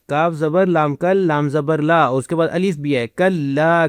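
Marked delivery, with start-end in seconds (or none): 3.1-3.9 کلا with the final "aa" held long; drawn-out vowel. Shown as a demonstration. Teacher showing where to stretch, کلا with long "aa". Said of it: "کھینچیں گے پھر".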